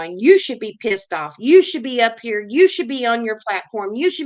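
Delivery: loud, fired-up call to action; angry shout. Real, not acted. Vlogger yelling at viewers to get angry, heated. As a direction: bark it at the viewers. Rant urging viewers to act.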